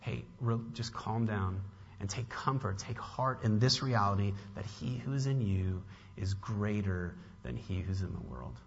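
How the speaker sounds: soft, half-whispered comfort; calming hush. Retold or imitated. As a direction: hush a frightened child down. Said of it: "you can see that he's like".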